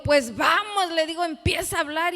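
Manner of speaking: pushing someone to get going; urging. Retold or imitated. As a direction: egg him on with a lifted, forceful voice. Urging her brother to speak.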